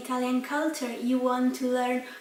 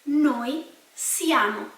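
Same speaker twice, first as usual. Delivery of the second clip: slow teaching demo; slower than usual. Shown as a demonstration. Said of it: "We are".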